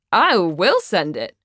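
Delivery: mildly defiant insistence. Acted. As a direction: call the bluff, swooping on the first word. Defiant drunken bluff in argument.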